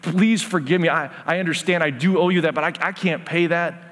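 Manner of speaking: mild retold pleading; begging. Servant begs master over unpayable debt, mildly pleading. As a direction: plead lightly, as if imitating the servant. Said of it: "he starts begging to the master".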